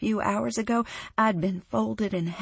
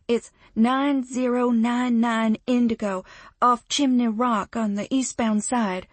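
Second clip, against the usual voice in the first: urgent; 4 semitones higher, 5 dB louder than usual. Acted. Urgently giving address.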